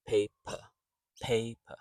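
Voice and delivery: "Paper" with an unstressed "uh" at the end; schwa ending. Shown as a demonstration. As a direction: say "Paper" as PAY-puh, final vowel reduced. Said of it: "So an unstressed e sound".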